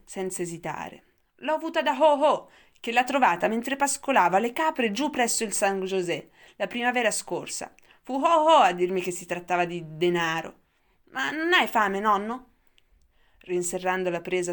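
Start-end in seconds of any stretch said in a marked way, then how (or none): 1.4-12.5 put-on much higher, louder boyish voice; a boy chattering away to grandpa; eager young boy. A narrator's reading. (ragazzo vivace, voce molto più acuta e forte)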